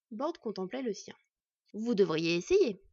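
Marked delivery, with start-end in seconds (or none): 1.7-2.8 encourageant. A narrator's reading. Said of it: "d'un ton encourageant".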